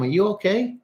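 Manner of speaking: high, caring string of questions; concerned counselor questions. Acted. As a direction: check in on a client, voice lifted high. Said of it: "I would say to him".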